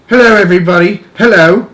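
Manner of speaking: loud, high greeting; happy calling out. A narrator's reading. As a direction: call down merrily to the crowd. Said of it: "laughing and waving and calling about".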